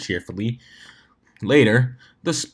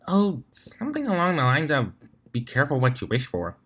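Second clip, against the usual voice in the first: lightly voiced refined lady, higher; a hint of a prim unicorn, pitched up; Rarity's voice; 3 semitones higher than usual.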